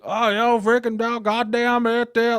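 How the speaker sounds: high slurred hillbilly dad impression. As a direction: slur it loud and high like his dad. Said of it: "I'll do my dad voice".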